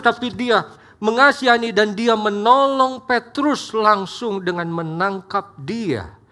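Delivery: ordinary delivery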